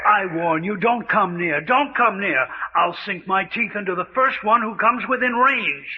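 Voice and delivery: a touch of cornered, frightened warning; desperate threat. Acted. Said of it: "The fear of the trapped animal".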